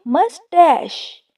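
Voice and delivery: मस्टैश drawn out slowly as "mus-TASH"; careful pronunciation. Shown as a demonstration. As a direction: demonstrate मस्टैश slowly, both syllables distinct. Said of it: "इसको गलत pronounce नहीं करना". (मस्टैश को धीरे और साफ़ "मस-टैश" बोलें)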